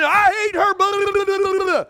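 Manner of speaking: mock angry wife. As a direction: rant like a fed-up spouse. Acted quarrel of couple.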